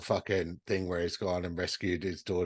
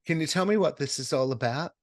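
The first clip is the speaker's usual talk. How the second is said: Cindy's question; 8 semitones higher, 4 dB louder than usual. Retold or imitated. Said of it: "She goes".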